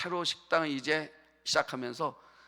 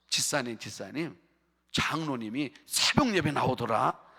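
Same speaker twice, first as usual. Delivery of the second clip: less hushed, mock-marvelling report; mock gossip; 4 semitones lower than usual. Member tells deacon an elder came to dawn prayer, mock gossip. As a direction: pretend an everyday fact is news.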